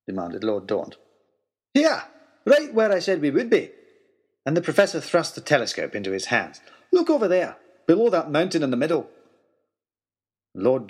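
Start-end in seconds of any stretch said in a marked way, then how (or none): 1.7-9.1 bursting to show them; lightly voiced excited old scholar; excited professor. Professor triumphant over discovery.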